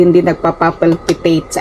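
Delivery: real stumble on "nagpapapalpitate", with extra "pa" syllables; "nagpapapalpitate" stuttered by accident on the pa-pa; tongue-tied. Real, not acted. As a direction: trip over "nagpapapalpitate", doubling up the "pa". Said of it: "Nabubulol ako".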